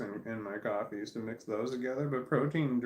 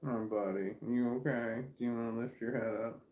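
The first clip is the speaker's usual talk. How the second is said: tender to the puppy. Real, not acted. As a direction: coo gently at the dog. Talking to puppy on lap.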